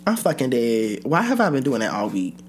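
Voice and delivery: lightly voiced bro persona, slow and swaggering; put-on Black American male accent. Vlogger greeting her fans in a mock persona accent. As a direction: ease into a laid-back dude accent. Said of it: "that shitty accent".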